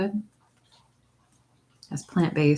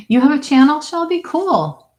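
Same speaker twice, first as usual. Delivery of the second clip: excited question; 10 semitones higher, 8 dB louder than usual. Real, not acted. Asking a viewer in chat.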